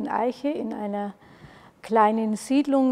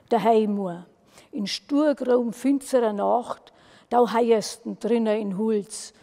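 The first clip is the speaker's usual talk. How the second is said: measured eerie dialect verse; spooky poem recitation. Acted. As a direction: recite it like a dark folk tale. (schauriger Gedichtvortrag in Mundart)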